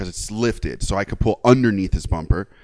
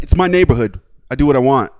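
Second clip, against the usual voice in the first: bully retort; 6 dB louder than usual. Retold or imitated. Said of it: "And he's like".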